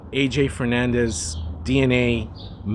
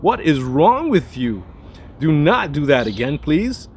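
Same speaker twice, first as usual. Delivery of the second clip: louder, higher mock outrage; mock screaming scolding; 5 semitones higher, 5 dB louder than usual. Nose scolding its owner for retrohaling, mock screaming. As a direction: scold like an affronted nose, hammed up. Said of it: "were just screaming at".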